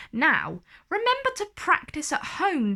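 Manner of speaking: high, quick teacher reminder. Acted. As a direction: remind the class brightly. Teacher instructs.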